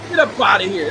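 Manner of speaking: loud, dismissive shove-off; mock dismissal. Voicing China telling Trump loudly to leave. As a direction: bark them off like the Chinese did. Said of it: "That's what they like".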